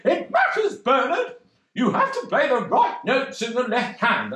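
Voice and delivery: high, firm mock teacher; a hint of a stern piano teacher. Missus Dines tells Bernard the left hand matters, mock stern.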